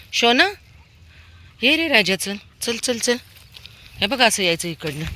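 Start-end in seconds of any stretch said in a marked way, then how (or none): 0.1-3.2 high, louder sweet-talk to the dog; cooing to a pet. Real, not acted. Owner coaxes her dog with pet names, high cooing.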